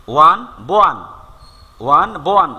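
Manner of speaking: ওয়ান then বোয়ান, with a b sound added at the start; one said as bowan. Shown as a demonstration. Teacher showing students how ওয়ান sounds like বোয়ান. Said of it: "ওয়ান না বলে বোয়ান".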